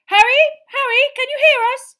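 high, loud hail through a wall; calling out. Acted. Trapped family calling to Harry through fireplace, loud hail. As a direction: shout to be heard through boards.

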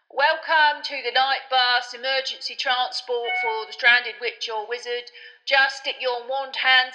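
loud announcement. Acted. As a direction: announce it loudly to the whole night street. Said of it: "began to speak loudly to the night".

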